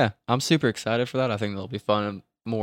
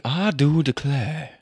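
lightly mysterious drawl attempt; a hint of intrigue. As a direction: try it as a mystery-sleuth line. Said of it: "that sounded myster-, mysterious".

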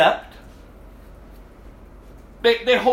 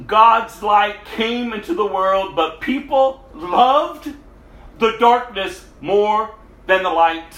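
slow, louder, weighty scripture reading; slow emphatic reading; 3 dB louder than usual. Acted. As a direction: lean on each word like a preacher.

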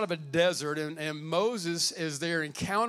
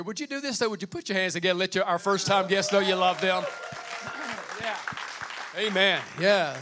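rally call; 4 semitones higher, 4 dB louder than usual. Real, not acted. Calling for applause.

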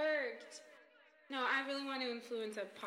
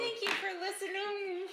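yelling; 8 semitones higher than usual. Acted. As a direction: shout the thank-you. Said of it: "She must yell".

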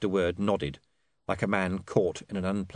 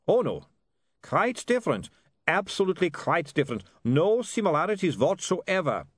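put-on high-pitched vampire with Germanic accent; placating vampire; 9 semitones higher, 3 dB louder than usual. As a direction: hastily reassure in a comic vampire accent.

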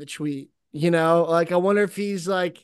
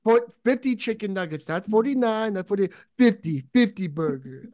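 put-on Indian accent. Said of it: "I can't stop doing Indian".

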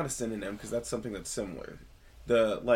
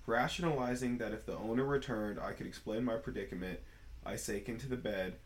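storytelling voice. Shown as a demonstration. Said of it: "storytelling voice for realsies this time".

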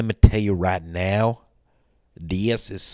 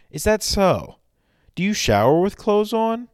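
much higher, sarcastic questioning; mock them in a high squeaky voice; 13 semitones higher, 5 dB louder than usual. Mock retort, pitch jumps.

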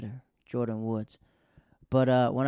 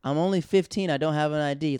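put-on panicked kid; 4 semitones higher, 5 dB louder than usual. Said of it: "so he's like".

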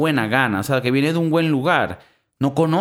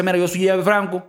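mock Cuban Miami accent; 5 semitones higher, faster than usual.

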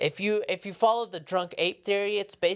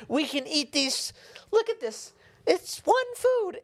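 silly ape voice; 10 semitones higher than usual. Acted. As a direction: play a dim monkey praising its food. Voicing monkey in tree.

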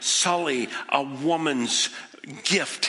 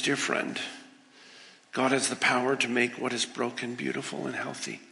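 tender reassurance; 2 semitones lower, 4 dB quieter than usual. Acted. God's tender answer.

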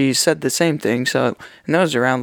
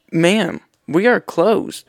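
slow firm; 5 semitones higher, much slower than usual. Retold or imitated. Retelling phone call with customer.

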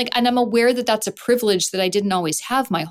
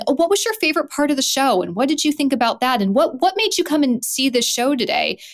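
higher-pitched, friendly chatty questions; friendly asking; 6 semitones higher than usual. Retold or imitated. Usher asking audience members about the show, friendly. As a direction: ask with light, friendly interest, pitched up. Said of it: "in a friendly, you know, way".

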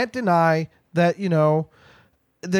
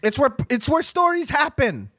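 mock scolding; 4 semitones higher than usual. Mock scolding of storyteller at party.

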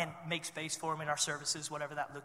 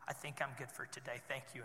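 much softer, offhand little reply; quiet and calm; 5 semitones lower, 15 dB quieter than usual. Retold or imitated. Woman in back declines more prayer, much softer and calm. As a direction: let it drop away, softly unbothered. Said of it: "She looks at me and she goes".

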